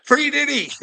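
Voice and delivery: The slogan yelled high and loud like a chant; mock rally shout.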